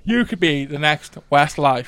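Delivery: slow mock talent-judge verdict; lightly put-on judge impression; Louis Walsh. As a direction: draw it out like a gushing TV judge. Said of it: "I can do just a Louis Walsh".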